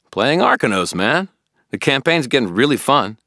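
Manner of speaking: a puzzled, keen friend pressing Harry; Billy the eager friend. Acted. Billy questioning Harry about the toads, puzzled and keen.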